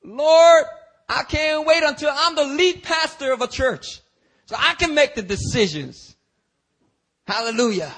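high, loud eager would-be pastor; ambitious believer. Retold or imitated. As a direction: crow about running the church.

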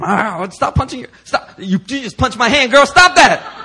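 high, loud flustered pleading with a laugh; half-laughing, tell her to stop it now; urgent laughing stop. Retold or imitated. Telling friend to stop punching.

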